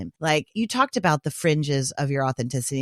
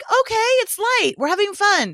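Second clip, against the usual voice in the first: high, light and breezy; mock cheerful reassurance; breezy facilitator voice; 4 dB louder than usual. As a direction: play the carefree host, pitched way up. Acting out a relaxed facilitator.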